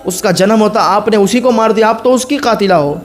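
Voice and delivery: put-on a son angrily throwing his old mother out; scolding harshly. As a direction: drive his mother out of the house in anger. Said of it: "झड़क के कहता".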